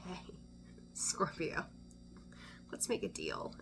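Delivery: hushed, scheming whisper of a tempter; a low conspiratorial hiss; sly whisper. Retold or imitated. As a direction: whisper it like a shady dealmaker. Scheming person offering a deal.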